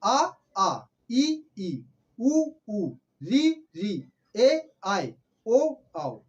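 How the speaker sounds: each vowel said slowly and clearly, short then long; vowel demonstration. Shown as a demonstration. Teacher sounding out the Hindi vowels slowly for students. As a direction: sound out every vowel for the class. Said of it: "स्वर हैं".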